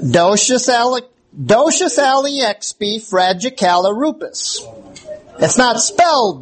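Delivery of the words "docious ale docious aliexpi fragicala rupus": docious aliexpi fragicala rupus, the word said backwards; backwards speech. Shown as a demonstration. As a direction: speak supercalifragilistic backwards, syllable by syllable. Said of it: "it's spoken backwards".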